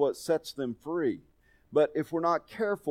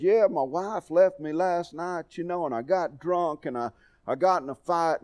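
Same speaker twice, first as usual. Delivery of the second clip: put-on heavy country accent; 4 semitones higher than usual. Caller telling his troubles, imitated heavy country accent. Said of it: "heavy accent".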